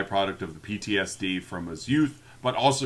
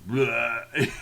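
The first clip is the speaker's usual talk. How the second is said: mock death groan. Imitates the dying collapse after last words.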